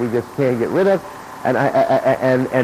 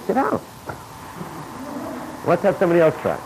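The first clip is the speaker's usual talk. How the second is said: brisk command; 6 semitones higher, 4 dB quieter, faster than usual. Retold or imitated. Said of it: "So I say".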